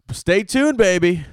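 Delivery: a playful high-pitched sign-off; sing-song stay tuned. Acted. Podcast host teasing fans about new dates, high sing-song. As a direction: stay tuned swooping way up high, then baby falling. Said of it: "signing off the tour promo".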